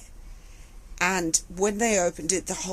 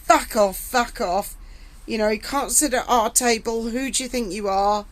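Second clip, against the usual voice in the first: retold abuse; 2 semitones higher than usual. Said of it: "these people had been so horrible".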